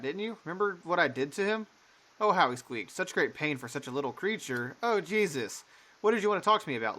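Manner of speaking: lightly voiced mocking mother, sing-song at times; unhinged mother. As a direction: taunt the little rat.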